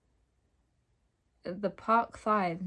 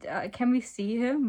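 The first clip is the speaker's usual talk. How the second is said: a mildly grumpy question, slightly raised; 4 semitones higher, 4 dB louder than usual. Acted. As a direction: ask it with a touch of grumpiness. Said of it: "Michael said grumpily".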